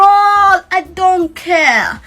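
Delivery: very drawn-out defiant dismissal. Real, not acted. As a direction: stretch it out, brushing critics off. Defiant reply to her critics.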